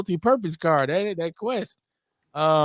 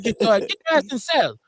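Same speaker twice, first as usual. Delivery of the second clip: put-on higher, louder Asian accent take; mock Asian accent; 6 semitones higher, 4 dB louder than usual. Same line in a mock Asian accent. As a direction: shout it like a cartoon guard. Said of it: "break out my Asian accent".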